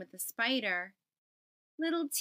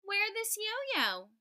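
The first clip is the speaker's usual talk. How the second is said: mock yell; 8 semitones higher, slower than usual. Little Y calling out the yo-yo, high and slow. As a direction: sing it out slowly and high. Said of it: "Little Y yelled".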